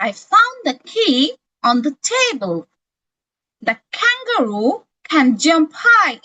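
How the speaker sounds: slow, clearly pronounced model sentences; careful demo reading. Shown as a demonstration. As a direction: say each word clearly for students to copy. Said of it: "এই যে আমি যেভাবে pronounce করে করে sentence গুলা বলছি".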